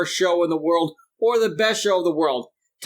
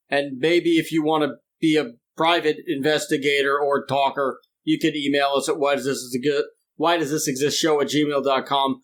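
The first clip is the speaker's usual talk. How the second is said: teeth chattering from cold; shivering while talking. Real, not acted. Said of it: "My teeth are chattering out of my mouth".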